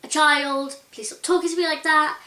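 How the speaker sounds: mock scream of pent-up annoyance; inner scream. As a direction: let out the frustration she holds in inside. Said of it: "like, screaming".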